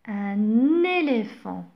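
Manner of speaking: un éléphant with the n carried over: un-néléphant; liaison. Shown as a demonstration. Teacher to pupils, modelling the liaison slowly. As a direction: link the n of un onto éléphant. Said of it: "Je fais la liaison".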